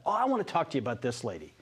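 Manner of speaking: quick, low imitation of an ad read; lightly mock a host easing into a commercial; low, hurried mock pitchman; radio ad pitch. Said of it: "This is a talk radio commercial".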